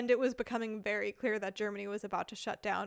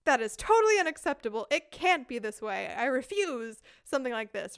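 worked-up complaint; 4 dB louder than usual. Retold or imitated. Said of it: "start raising your voice and getting all worked up".

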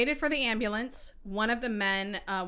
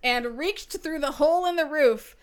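put-on Mid-Atlantic accent; 3 semitones higher, 3 dB louder than usual. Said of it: "You should have been telling that entire story that way".

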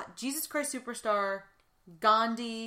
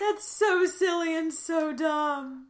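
laughing; 8 semitones higher, 5 dB louder, much slower than usual. Real, not acted. Still laughing at the clip.

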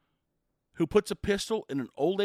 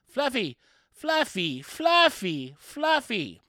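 higher, loud pleading calls; helpless repeated calling; 6 semitones higher, 5 dB louder, much slower than usual. Retold or imitated. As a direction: call the dog over and over, losing hope. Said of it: "Fluffy's owner's just going".

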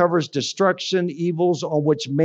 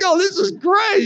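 sarcastic; 13 semitones higher than usual. Retold or imitated. Ironic reaction to refusal.

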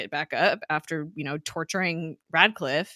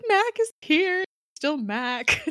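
high-pitched, retold happy cry; tearfully happy; 9 semitones higher, much slower than usual. Viewer overjoyed that Mac stayed good, tearfully happy. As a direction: squeak it out, imitating happy tears. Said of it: "I totally cried".

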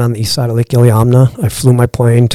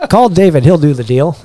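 Southern drawl; 4 semitones higher than usual. Retold or imitated. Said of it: "he's got the drawl".

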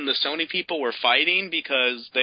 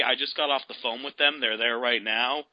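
mocking quote; 3 semitones lower than usual. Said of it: "why would you say".

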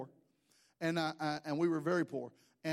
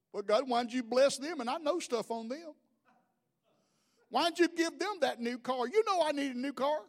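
a touch of whiny grievance; mock someone griping to God; jealous complaining prayer; 5 semitones higher than usual. Envious believer griping to God, lightly whiny.

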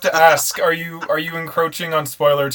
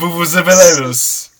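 drawn-out silly; 3 semitones higher, 6 dB louder, much slower than usual. Pretend. Joking about editing in vuvuzelas.

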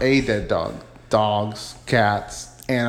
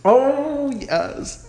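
cooing pet talk; 13 semitones higher than usual. Pretend. Podcaster doting on a pet, playful coo. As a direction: fuss over the pet in baby talk.

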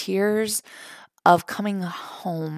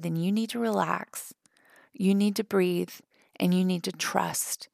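preacher's calm instruction; 6 dB quieter than usual. Retold or imitated. Preacher calming her in line.

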